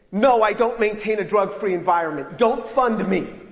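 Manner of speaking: loud, emphatic mock confession, slowing at the end; mock defiant refusal. Grant applicant absurdly answering a form, mock defiant. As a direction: refuse loudly as a joke, dragging the last words.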